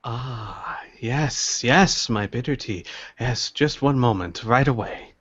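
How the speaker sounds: lightly voiced, obliging old host; soft sigh of recognition, then politely obliging; a hint of an elderly tea master; courteous old tea seller.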